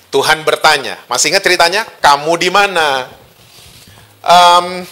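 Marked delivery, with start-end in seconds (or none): 2.0-3.0 slow, gently unhurried question; not angry. Acted. God asking the hiding Adam where he is, slow and unangry. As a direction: draw the question out without anger. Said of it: "Intonasinya ternyata tidak marah".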